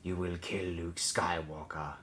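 slow, deliberate voice in the head; drawn-out, insistent mental command; commanding inner voice. A narrator's reading. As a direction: intone it slowly as a haunting command. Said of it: "the voice in the back of her mind".

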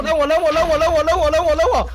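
calling out. Real, not acted. Calling teammates to throw at her.

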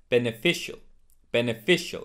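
BENEFICIAL ending in a single "shul"; correct beneficial. Shown as a demonstration. Teacher modelling a similar word, beneficial ending shul. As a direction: say "beneficial" as "ben-uh-FISH-ul". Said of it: "it's not sheol".

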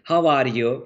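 lightly Turkish-accented English with pressed R's. Shown as a demonstration. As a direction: demonstrate a mild Turkish accent, leaning on the R. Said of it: "R'leri falan basarak konuyu".

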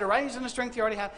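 quick, light run through the words; brisk retelling. Acted. Preacher recapping God's command to Gideon, quick and light. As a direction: rattle off the command fast. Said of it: "God looked at Gideon and said".

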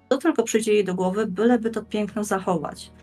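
ordinary talk

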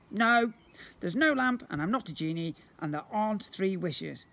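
booming slime creature. Acted. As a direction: play the magical blob, grand and eager. Slime character voice.

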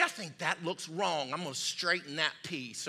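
half-mumbled pretend deliberation; offhand musing. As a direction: think aloud casually as a clueless amateur. Acts amateur surgeon thinking aloud.

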